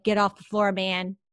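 firm, no-nonsense retold command; means business. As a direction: give a brisk order that means business. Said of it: "that voice meant biz".

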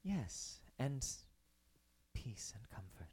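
hushed, solemn celestial figure; gentle angel voice. Acted. Angel blesses her.

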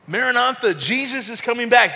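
rally the church with the cry; joyful proclamation. Acted. Preacher leading the church in a triumphant Maranatha, excited. Congregation call and response.

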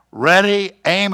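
lightly voiced firing-squad commander; commander's order.

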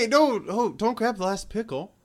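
high, loud mock alarm; mock panic. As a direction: overreact over a pickle. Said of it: "It's like".

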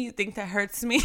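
mocking laugh while repeating the dare; laughing taunt. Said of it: "he was like".

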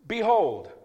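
"Behold" said again loud and high; loud repeat. Shown as a demonstration. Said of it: "Somebody say".

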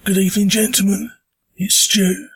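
hoarse from a sore throat; talking through a sore throat. Real, not acted. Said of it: "apologise for the voice. I have got a stonking sore throat".

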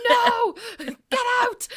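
high, loud heckling cry with laughter; shouting. Retold or imitated. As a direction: yell it like a grumpy heckler. A care home resident heckling the singer.

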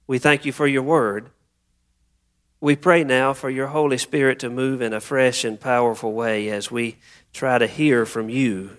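unhurried prayer with long pauses; spoken prayer. Acted. Pastor leading the congregation before the reading, measured prayer. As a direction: pray aloud, pausing after each petition.

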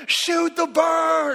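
high, loud, drawn-out mock shout; imitated urgent yell. Cousin at the bottom of the tree, high imitated yell. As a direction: holler it up at someone far above.

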